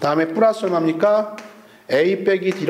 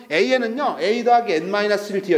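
잘못된 읽기 시범. Retold or imitated. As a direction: mimic a student reading out symbols. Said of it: "이렇게 읽는 게 아니고". (학생이 공식을 글자 그대로 읽듯)

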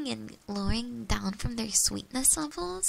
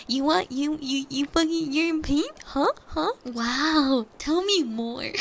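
goading fake interest, a bit raised; mock-astonished teasing; petty mocking; 3 semitones higher, 4 dB louder, slower than usual. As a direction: needle a sibling with exaggerated curiosity. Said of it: "I was being a complete little, like, petty bitch".

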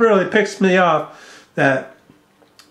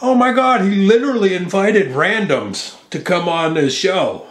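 high, mocking whiny voice; mocking a critic's shocked post; mocking quote; 3 semitones higher than usual. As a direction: sneer it like the guy who posted. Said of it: "he posts".

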